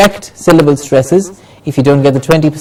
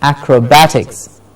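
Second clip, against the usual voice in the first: "acrobatics" as ac-ro-BAT-iks; stress on BAT. Shown as a demonstration. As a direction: model "acrobatics", beat on "bat". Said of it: "Bat gets the stress".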